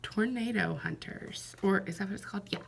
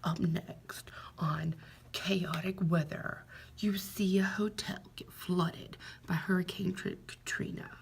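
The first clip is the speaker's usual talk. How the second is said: mock TV announcer. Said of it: "the kinds of shows where they say the same things over and over".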